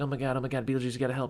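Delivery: fast, frantic, panicked cry. Retelling a movie scene where the character begs for help: imitating Winona Ryder freaking out. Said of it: "Winona Ryder's freaking out".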